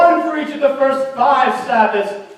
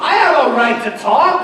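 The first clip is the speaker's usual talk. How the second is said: shouting. Acted. Quarrel at the wedding.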